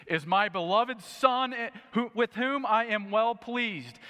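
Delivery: a lightly voiced God from the cloud; booming voice of God. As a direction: announce it like heaven speaking. God's voice from the cloud.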